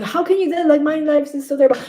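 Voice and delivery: mock the moaning; whiny complaint. Imitating people moaning about life, high and whiny.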